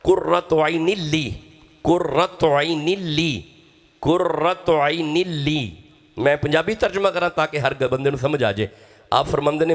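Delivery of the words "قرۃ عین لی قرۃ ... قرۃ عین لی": slow drawn-out Arabic recitation; قرۃ عین لی intoned slowly; Quranic recitation. Shown as a demonstration. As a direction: chant each word slowly and reverently. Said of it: "وجہ یہ ہے کہ قرۃ".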